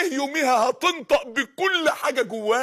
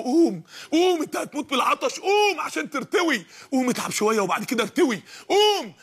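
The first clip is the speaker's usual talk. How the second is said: urging him up; 2 semitones higher than usual. Retold or imitated. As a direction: push the dying man to stand. Voicing urging inner voice.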